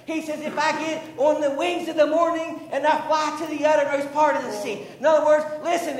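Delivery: insistent sermon cadence with punched words; fervent preaching. Real, not acted. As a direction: drive each phrase home to the congregation. Preaching at full force.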